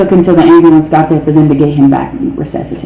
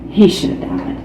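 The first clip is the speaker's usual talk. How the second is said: hushed; 8 dB quieter than usual. Real, not acted. Solemn repeat, voice drops.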